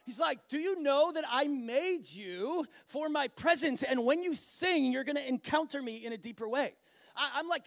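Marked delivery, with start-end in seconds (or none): 0.5-6.7 delighted loving father. Acted. Bright-eyed father inviting his child to sing, lovingly eager. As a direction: say it with a big smile. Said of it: "He is this father who has bright eyes, big smile".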